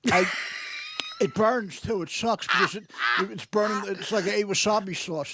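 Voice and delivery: chewing while talking; words mashed around chewing gum; mouth full. Real, not acted. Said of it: "that sounds like Richard Simmons is eating".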